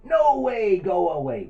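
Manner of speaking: high, loud, drawn-out cry; defiant refusal. Acted. Little butterfly to the hungry spider, defiant high shout. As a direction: shoo it off in a big high voice. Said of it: "Can you all say that?".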